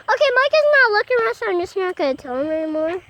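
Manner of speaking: loud, fast call across the yard; calling from far away. Real, not acted. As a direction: call it out to him. Loud excited outdoor talk.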